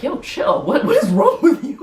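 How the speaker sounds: high-pitched mock scolding, breaking into laughter; mock exasperation. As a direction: imitate an exasperated friend, voice climbing high. Acted quarrel in retold scene.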